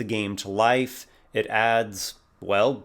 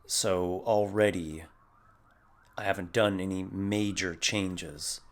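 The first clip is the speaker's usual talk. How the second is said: subdued slow character voice, softer and measured; slow it down and settle a touch lower; slower, slightly lower; 4 dB quieter than usual. Shown as a demonstration. Showing players an easy character voice, slowed and lowered. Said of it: "just a slight pitch lower".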